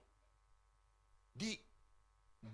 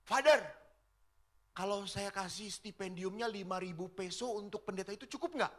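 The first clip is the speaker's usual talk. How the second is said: calling out; 2 semitones higher than usual. Retold or imitated. Lady calling back to the priest, mild mock shout. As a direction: call across the yard to the priest. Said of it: "Lalu dia teriak".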